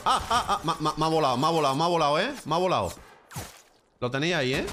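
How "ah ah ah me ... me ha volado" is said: laughing. Real, not acted. Laughing at getting shot.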